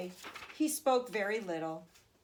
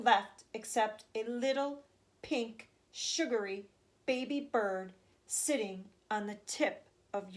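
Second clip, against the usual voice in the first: speaking slowly. Acted. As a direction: draw out every treat so no word is missed. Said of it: "speaking very slowly now".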